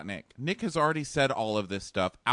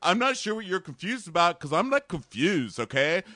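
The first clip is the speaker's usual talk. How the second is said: raised, insistent boyfriend impression; hammed-up frustrated arguing, higher; mock exasperation; 6 semitones higher, 5 dB louder than usual. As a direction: imitate a boyfriend pressing an argument. Voicing Josh arguing with Amanda.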